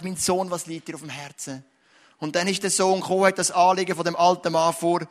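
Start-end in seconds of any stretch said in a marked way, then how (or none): 0.0-1.6 softer, hushed fatherly question; tender father. Retold or imitated. God the Father asks his Son, softly and tenderly. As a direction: lean in and ask it softly, like a loving father.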